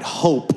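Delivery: "Hope" with an emphatic, audible H; clearly sounded H. Shown as a demonstration. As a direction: punch out "Hope", leading with a clear H. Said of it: "Hope with an H. Say it right".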